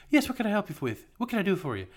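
high, testy assistant voice; mad Irish assistant. Retold or imitated. Owner mimics Irish Siri tapped by mistake, mock testy. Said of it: "The Irish one gets mad".

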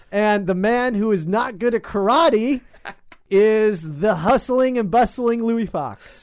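slow, grand newsreel introduction; booming old-timey announcer; old radio announcer. Acted. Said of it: "I'm like a big city in the nineteen fifties on an old-timey newsreel".

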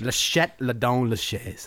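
slow, clumsy French accent; amateur schoolbook French; badly pronounced French, drawn out; terrible French. Shown as a demonstration. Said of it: "That sounded really terrible".

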